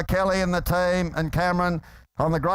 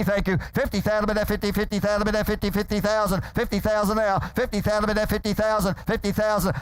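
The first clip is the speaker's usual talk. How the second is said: rapid auctioneer bid calling; frantic trading floor shouting; 3 semitones higher than usual. Real, not acted. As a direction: rattle off the bids, pushing buyers.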